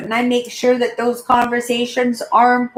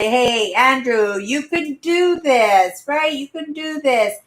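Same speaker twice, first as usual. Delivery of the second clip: lifted, slower, rallying cheer; encouraging pep talk; 3 semitones higher than usual. Retold or imitated. A friend cheering Andrew on toward recovery, encouraging. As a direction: pump him up so he can do it.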